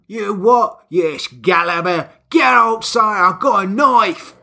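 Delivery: lightly done Cockney challenge; Cockney, squaring up for a fight; a touch of Cockney bravado; Cockney accent. Retold or imitated. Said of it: "then she's gone Cockney".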